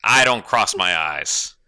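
slow hard-boiled private eye; noir detective. Acted. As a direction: drawl it like a noir gumshoe.

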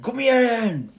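high, drawn-out rallying shout. Shown as a demonstration. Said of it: "höja rösten".

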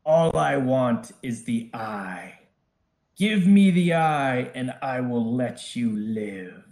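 commanding dragon demanding the eye; booming voice. Acted. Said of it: "suddenly you hear a booming voice".

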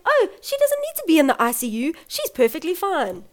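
high, airy mock reassurance; mimicked staff. Staff saying baby needn't be in ICU, lightly mimicked.

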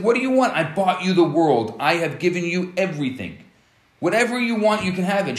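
playing the baffled husband who bought everything; exasperated husband. Husband frustrated, wife unhappy.

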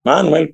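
"Manuel" stressed on the first syllable, MA-nuel. Shown as a demonstration. Player showing how Italians say "Manuel", stressed on the A. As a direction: hit the A in "Manuel", not the E. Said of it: "lo ponen en la A".

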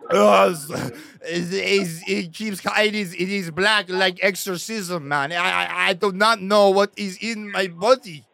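outraged French customer; French accent. Pretend. Prank caller complaining about soup, hammed French accent. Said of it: "you started doing a French accent".

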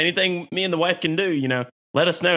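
high, friendly put-on neighbor voice; friendly Texan neighbor. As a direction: offer help in a cheery mock Texan tone. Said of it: "there's like".

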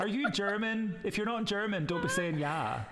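high-pitched comic indignation; mock fury. Telling off a student for saying "yah", comically indignant. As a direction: scold in exaggerated, amused outrage. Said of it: "I was furious".

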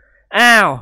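taken aback; drawn-out startled gasp; exclamation. A narrator's reading. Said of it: "เสี่ยหงวนอุทาน".

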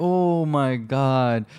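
slow drawn-out mock despair; slow weary oh my God; exasperated groan. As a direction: drag it out in frustration. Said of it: "So I was like".

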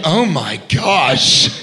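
slow, shouted excited gasp of delight; drawn-out gush. Retold or imitated. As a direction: stretch it out like a starstruck fan. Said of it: "There just was like".

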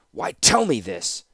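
slow, mildly growled question; understated growl, drawn out. Acted. Prisoner questions his captor, growling slightly. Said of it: "growled Tanos".

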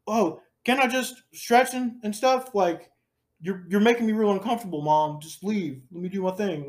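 high-pitched mock protest to mom; flustered stepson. Stepson begs mom to leave, imitated high protest.

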